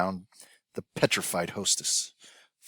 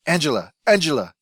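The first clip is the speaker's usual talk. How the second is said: mild, higher pleading calls; moaned; 7 semitones higher, 7 dB louder than usual. Acted. Sidel on the stretcher moans for her partner. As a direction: call out for her in pain. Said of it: "Sidel moaned".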